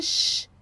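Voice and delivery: "sh" as a plain hushing sound. Shown as a demonstration. Teacher showing the sound to avoid, bare "sh". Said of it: "Não vai ser".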